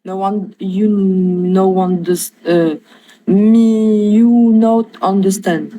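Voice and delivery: slow, halting English with a French accent; hesitant French-accented broken English. Real, not acted. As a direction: grope through the English words slowly. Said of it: "j'essaie d'améliorer mon accent en anglais".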